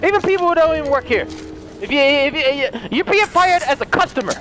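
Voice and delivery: lightly voiced ranting Mr Krabs; a hint of an angry crab boss.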